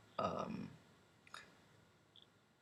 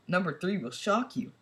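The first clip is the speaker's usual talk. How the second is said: high-pitched hyped clickbait teaser; clickbait video narrator; 6 semitones higher than usual. Pretend. Mock clickbait list bit.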